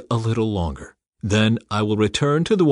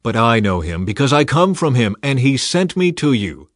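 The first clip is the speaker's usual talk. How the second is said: calling out; 3 semitones higher, 6 dB louder than usual. Acted. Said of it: "he called out".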